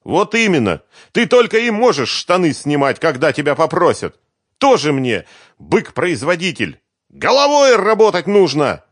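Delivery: high, loud furious nagging; angry scolding. Acted. Svetlana scolds the bass guitarist, high and angry. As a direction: tear into him.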